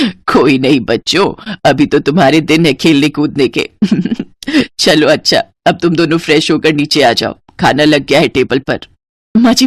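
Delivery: mother-in-law. Acted. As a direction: speak as a gentle elderly mother-in-law. Mother-in-law voiced by narrator.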